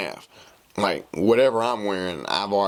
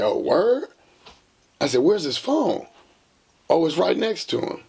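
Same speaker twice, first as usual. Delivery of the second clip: higher, louder quoted back-and-forth; high mock voice; 8 semitones higher, 3 dB louder than usual. On the phone hunting his friend, acted higher and louder. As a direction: pitch it up like a comic phone call.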